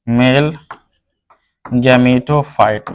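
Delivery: drawn-out term, word by word; slow dictation. Real, not acted. Teacher dictating a new term to students, slow dictation. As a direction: spell it out slowly for note-takers.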